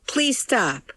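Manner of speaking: high-pitched desperate plea; yelled plea. A narrator's reading. Daughter begging fighting parents, high yelled plea. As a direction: beg them to stop, pitched high. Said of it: "I yell".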